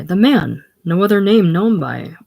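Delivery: a hint of menace, punched out loud; ominous emphasis. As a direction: make the name sound dangerous. Ty naming the feared boss.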